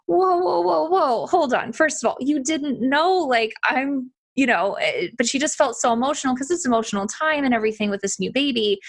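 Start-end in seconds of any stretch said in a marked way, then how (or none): 0.1-4.7 higher pitched hold-on, stopping her short; an urgent, higher whoa to halt the guilt; retold urgent whoa. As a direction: cut her off, higher, to calm her. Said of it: "And I'm like".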